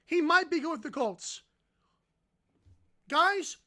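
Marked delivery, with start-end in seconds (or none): 0.0-1.4 sarcastic imitation of pundits; mock the analysts' change of heart; mocking media voice. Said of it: "now says".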